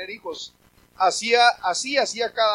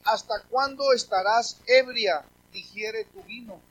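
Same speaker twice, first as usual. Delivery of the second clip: stern priest; slower than usual. Acted. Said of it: "le dijo Elí".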